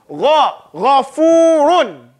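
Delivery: slow Gha, ghafurun with throaty gh; recited. Shown as a demonstration. Teacher showing the right gha sound. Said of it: "It's still gha".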